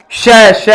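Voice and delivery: श drawn out with a long hiss of air; hissed sh demo. Shown as a demonstration. Teacher demonstrating श to students, long hiss. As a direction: hold the श so the air flows out. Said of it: "नीचे वाले बोल के देख लो".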